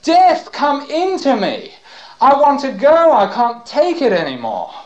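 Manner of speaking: high, loud pleading that breaks upward on death; desperate crying out. Retold or imitated. Dying men on crosses begging, loud desperate cry. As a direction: beg for death at full voice. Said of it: "heard them crying out and saying".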